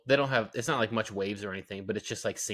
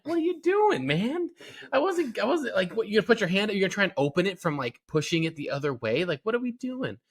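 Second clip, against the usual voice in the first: mock exasperated; 8 semitones higher than usual. Father scolding toddler, retold.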